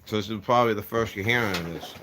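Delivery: talking around gauze in mouth. Real, not acted. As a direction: mouth stuffed with dental gauze. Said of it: "I got some gauze in my mouth".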